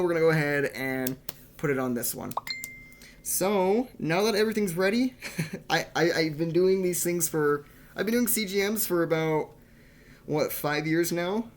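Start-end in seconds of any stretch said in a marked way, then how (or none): 5.7-11.5 nervous. Real, not acted. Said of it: "even I get nervous".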